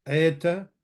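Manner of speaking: "Eeta" as AY-ta, with no d sound; silent daleth. Shown as a demonstration. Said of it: "the daleth is not pronounced".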